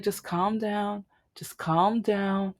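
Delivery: slow and soft, fading to a whisper; soothing coworker. Retold or imitated. Coworker soothing a crying friend on speakerphone, slow and whispered. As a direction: hush her gently, slowly, to calm her.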